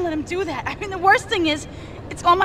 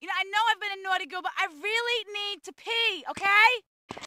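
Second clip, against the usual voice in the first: fast and much softer, calling from afar; muffled, from another room; 4 semitones higher, 7 dB quieter than usual. Acted. Tied-up Maria calls out to Asuka from afar, fast and soft. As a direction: rush it out softly, as if behind a door.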